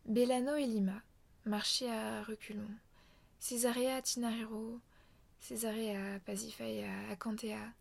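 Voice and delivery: slow, measured poetry reading with long pauses; poem recital. Shown as a demonstration. Reading the forum poem aloud before commenting, measured recital. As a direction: let each strange name ring out like a litany. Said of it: "je vais le lire une fois en entier avant de le commenter".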